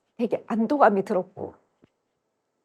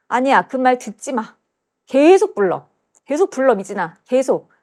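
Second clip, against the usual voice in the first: retold mother's insistent urging, raised pitch; higher, louder on the command to keep going; 4 semitones higher, 4 dB louder than usual. Mother telling her daughter to keep singing, insistent. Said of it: "엄마가 또 그때".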